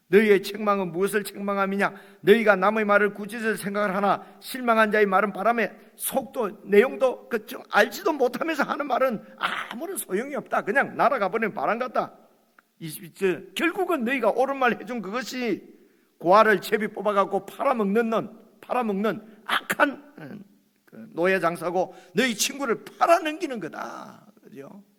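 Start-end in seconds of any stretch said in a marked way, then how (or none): 0.1-12.2 Job protesting. Acted. Job rebuking friends. 13.5-24.3 Job protesting. Acted. Job accusing friends.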